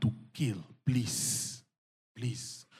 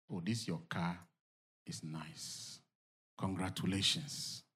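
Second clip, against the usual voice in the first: low, soft acted praise; subdued compliment; 8 semitones lower, 8 dB quieter than usual. Telling someone their new car is nice, low and soft. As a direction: offer it gently, dropped well below preaching pitch. Voices praise to the car's owner.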